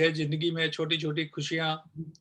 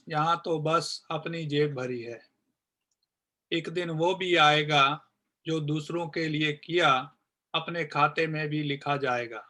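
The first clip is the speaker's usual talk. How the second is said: poem recitation. Acted. Recites own poem on corona. (कविता पाठ, आख़िर में धीमी पड़ती आवाज़)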